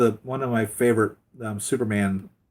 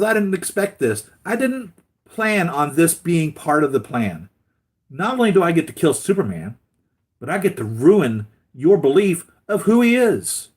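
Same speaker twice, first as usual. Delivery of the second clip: high, loud mocking bad-guy voice; gloating villain; 7 semitones higher, 6 dB louder than usual. Villain taunting Lois about Superman, high loud gloating. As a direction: lay the triumph on thick, up high. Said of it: "He goes".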